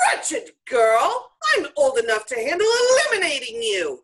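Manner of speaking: angry threat. Acted. Witch threatens the girl.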